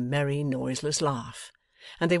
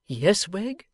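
higher answer through a keyhole; through a door; 6 semitones higher, 5 dB louder than usual. A narrator's reading. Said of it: "the reply through the same channel".

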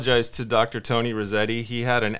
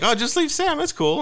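imitating the handyman. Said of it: "He's like".

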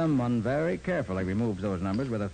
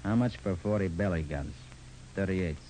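gangster voice; 4 semitones lower than usual. Acted. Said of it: "in my best gangster voice".

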